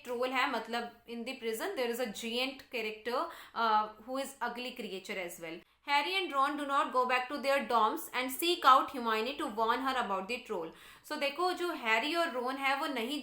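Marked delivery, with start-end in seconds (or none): 2.7-10.7 slow, deliberate textbook read-aloud; measured classroom reading. Real, not acted. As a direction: read it out slowly for a class, word by word. Reads the English text aloud.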